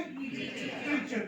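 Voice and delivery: क्रीचर drawn out slowly, kree-cher; slow model word. Shown as a demonstration. Teacher models the word for the class, very slow. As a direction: stretch क्रीचर for students to copy. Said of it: "क्या word होता है ये".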